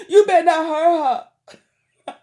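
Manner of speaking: slow angry warning. Real, not acted. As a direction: spell out each word as a warning. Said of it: "I'm so mad at him".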